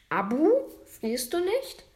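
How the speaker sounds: put-on a small child, wide-eyed in the cold cloud; high little girl voice. A narrator's reading. Marie asking Abu in the cold cloud, high and slow.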